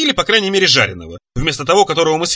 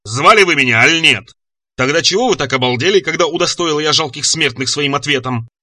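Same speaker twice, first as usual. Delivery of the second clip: lightly voiced growling monster. Monster scolds dumbstruck mortals, imperious growl.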